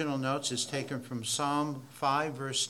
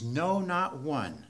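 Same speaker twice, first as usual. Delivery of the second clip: slow quote; slower than usual. Shown as a demonstration. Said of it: "as emphatic as he can possibly be".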